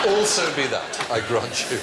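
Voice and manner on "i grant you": usual speaking voice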